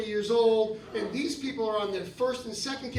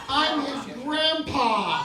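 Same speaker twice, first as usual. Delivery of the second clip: indignant; 3 semitones higher, 4 dB louder, much slower than usual. Retold or imitated. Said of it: "fucking said".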